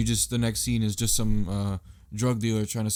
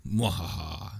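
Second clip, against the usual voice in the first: mock villain laugh Mwahaha; evil laugh; 4 semitones lower, 4 dB quieter, slower than usual. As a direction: cackle like a cartoon villain. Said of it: "that was a little bit more evil".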